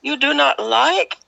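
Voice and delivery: a gentle, puzzled hint of the lady; Indian lady. Lady asking Lynn if she dislikes the beans, puzzled.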